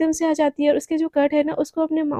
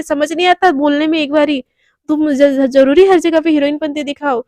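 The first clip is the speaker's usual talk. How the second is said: rude scolding; 7 dB louder than usual. Acted. Radhika scolding Devika rudely.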